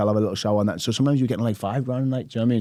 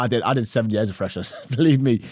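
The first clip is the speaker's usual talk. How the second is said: ordinary talk, nothing marked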